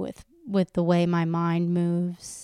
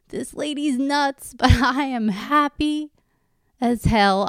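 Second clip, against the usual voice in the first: higher, laughing and louder; laughing delight; 5 semitones higher, 3 dB louder than usual. Retold or imitated. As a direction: gush with a laugh. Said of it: "I was like".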